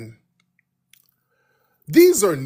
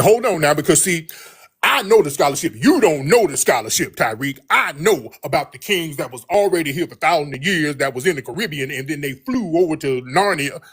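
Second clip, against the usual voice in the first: mock condescending debater lecturing the host; mocking a hostile caller. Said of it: "weird passive aggressive hostility".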